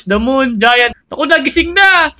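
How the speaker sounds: ordinary talk, nothing marked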